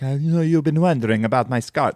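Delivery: a lightly voiced, quick Peter Lorre villain, hardly off his own voice; bad Peter Lorre. Podcaster mocks a Bond villain's monologue, bad Lorre impression. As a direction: toss off a half-hearted Lorre villain line. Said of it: "I just did the worst imitation of him".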